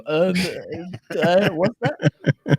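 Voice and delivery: slow, dragged-out hesitant stammer imitating himself; hammed-up searching for the word; mock fumbling for a word. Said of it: "of me going".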